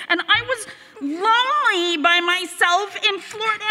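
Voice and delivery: a teary laugh breaking into the words; half laugh, half cry as you admit it; laughing through tears. Real, not acted. The speaker admitting her loneliness to Carol, laughing through tears.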